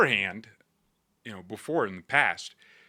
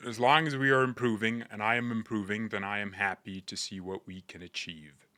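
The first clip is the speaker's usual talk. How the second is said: lightly imitated English footballer accent; a hint of a calm English footballer's accent; Harry Kane accent. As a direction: read the quote in a faint English accent. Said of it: "let me read it in his accent".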